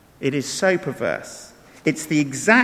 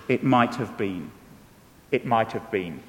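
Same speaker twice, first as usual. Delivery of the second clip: mournful poem recital; wistful lament; 7 semitones lower, 6 dB quieter than usual. Real, not acted. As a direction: sigh out lost chances. Quoted sad poem line.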